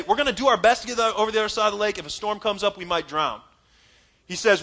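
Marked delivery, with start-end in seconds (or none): 0.0-3.4 tentative, hedging take; what Jesus did not say, hedged; hesitant mock version. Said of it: "He doesn't say".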